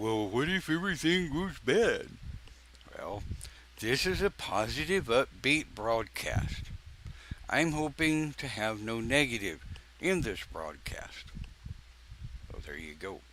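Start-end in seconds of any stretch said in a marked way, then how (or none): 0.0-2.1 mock raised ding-dong heckler voice, whining. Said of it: "some ding dong will come up with".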